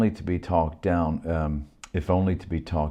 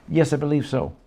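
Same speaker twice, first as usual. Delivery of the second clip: higher, louder reply; stranger; 11 semitones higher, 4 dB louder than usual. Acted. Stranger answers.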